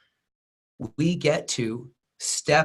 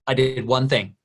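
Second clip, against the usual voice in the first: straight-faced; 4 dB louder than usual. Retold or imitated. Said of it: "straight-faced and goes".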